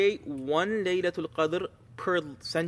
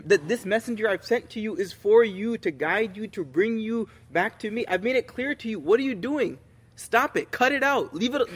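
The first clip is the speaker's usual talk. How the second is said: stern reprimand; 4 semitones higher than usual. Retold or imitated. God imagined scolding his wayward servants, stern reprimand. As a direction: scold like an exasperated master. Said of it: "stern voice".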